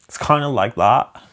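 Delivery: punchy put-on Scottish; Scottish accent. Shown as a demonstration. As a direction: demonstrate a rough Scottish accent. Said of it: "a little bit of Scottish".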